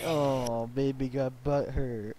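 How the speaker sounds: drawn-out mocking coo; mock pity. Real, not acted. Repeated mocking taunt.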